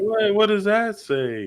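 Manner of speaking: high, slow mock-curious question; talking to a little kid. Adult asking a little kid about his shirt, high playful voice. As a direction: ask slowly and high, as if indulging a child. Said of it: "if a little kid puts something on".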